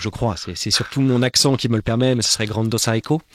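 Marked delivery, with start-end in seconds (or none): 2.5-3.2 "Grando Saiko" with an added "o" and "ai" as in Sai-ko; a light Japanese-style "Grando Saiko"; "Grando Saiko", said lightly in the Japanese manner; mock Japanese pronunciation. Shown as a demonstration. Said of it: "c'est vraiment avec mon accent".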